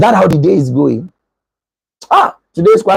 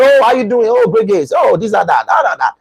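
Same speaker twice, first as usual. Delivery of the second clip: higher bright excited greeting; energetic greeting; 4 semitones higher than usual. Shown as a demonstration. A mentor greeting a mentee with his usual energy. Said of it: "the energy I bring".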